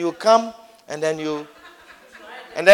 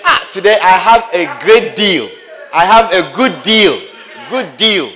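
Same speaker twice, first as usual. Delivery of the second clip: mock proud bargain hunter; 4 dB louder than usual. Acted shopper boasting of bargain.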